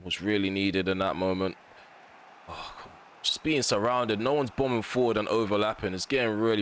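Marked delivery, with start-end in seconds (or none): 2.5-3.0 frustrated whisper. Real, not acted. Frustrated at a missed chance.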